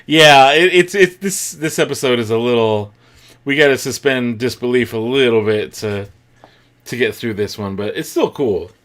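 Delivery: talking while chewing; eating between words; crunching chips. Real, not acted. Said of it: "Excuse my crunching".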